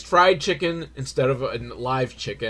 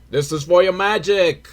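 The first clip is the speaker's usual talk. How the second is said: mystery man's lightly hammed-up Jamaican accent; fake Jamaican accent; 4 semitones higher, 4 dB louder than usual. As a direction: say it in a badly faked Jamaican accent. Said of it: "fake white Jamaican dude".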